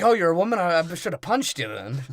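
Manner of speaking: high, loud exclamation of surprise; mock outburst. Sparrow finding out his rival is a woman, loud mock surprise. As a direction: burst out in mock astonishment.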